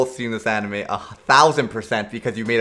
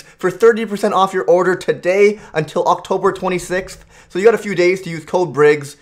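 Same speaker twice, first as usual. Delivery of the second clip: upbeat, lively sponsor read; 3 semitones higher than usual. Acted. Streamer plugging an energy drink to viewers, sponsor ad read. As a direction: pitch it like an enthusiastic endorsement.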